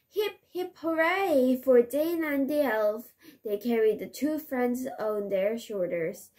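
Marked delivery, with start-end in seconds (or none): 0.1-3.1 cheering. Acted. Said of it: "The villagers shouted".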